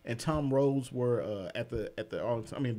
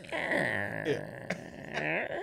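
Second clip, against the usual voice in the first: creaking door noise; 10 dB quieter than usual. Pretend. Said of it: "Like a door opening?".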